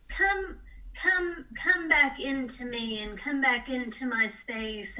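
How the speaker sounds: pushing words out through tears; crying while speaking. Real, not acted. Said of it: "I'm gonna try not to cry".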